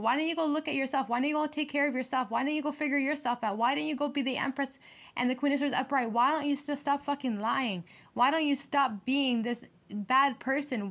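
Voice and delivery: fed-up lecturing; exasperated scolding. Real, not acted. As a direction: scold with piled-up rhetorical questions. Scolds the absent enemies.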